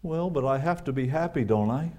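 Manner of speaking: high, soft, whining complaint; whiny voice. Retold or imitated. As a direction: whine it like a sulking child. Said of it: "in a whiny voice".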